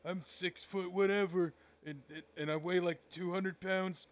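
cocky wrestler promo voice; Chris Jericho. Retold or imitated. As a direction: play it as a smug wrestler promo. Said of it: "hey, I'm Chris Jericho".

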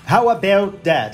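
slow, put-on Canadian "about"; Canadian accent. Shown as a demonstration. Guest playing with the vowel just discussed, put-on Canadian accent.

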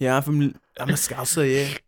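teasing Liverpool accent impression; mock Scouse accent. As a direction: lay on a mocking Scouse accent. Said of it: "he has that Liverpool Scouser accent".

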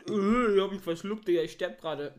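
coughing after choking on a drink; spluttering after swallowing wrong. Real, not acted. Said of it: "ich hab mich grad so fett verschluckt".

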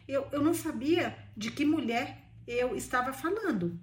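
mild emphasis, "eu não sabia" set apart; emphatic. A narrator's reading. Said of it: "ela acrescentou com enfa-, enfática distinção".

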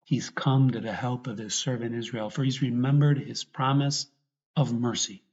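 measured proclamation with emphatic key words; earnest, deliberate recitation of a sacred text; scripture reading. Real, not acted. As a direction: read the gospel out to a congregation. Reads the Gospel canticle aloud.

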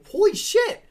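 loud, high burst of astonishment; real shock. Real, not acted. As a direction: exclaim as the years suddenly hit you. Shocked at how long ago.

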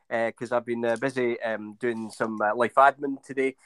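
a little winded while talking; out of breath. Real, not acted. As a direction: speak while catching your breath. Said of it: "I'm just trying to catch my breath".

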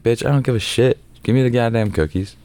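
high, brash mock demand; cocky demand. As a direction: wave off the warning, cocky. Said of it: "I was like".

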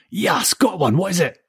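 put-on high, excited boy's yelp. A narrator's reading. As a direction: yelp it high with the thrill of a catch. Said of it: "he yelped".

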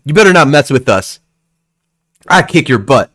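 put-on boy warning a stranger to back off; tough kid voice. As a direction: puff up like a little tough guy. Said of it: "he looks over at you and he goes".

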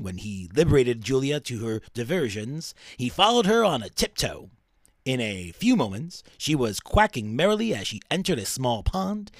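lightly voiced radio countdown host reading; a hint of Casey Kasem narration; bad Casey Kasem. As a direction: read it like a cheesy radio DJ. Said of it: "it's a bad Casey Kasem".

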